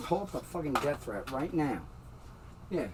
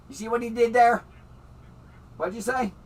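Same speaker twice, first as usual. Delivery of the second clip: indignant shout; 7 semitones higher, 6 dB louder than usual. Real, not acted. Angry appeal to the cop.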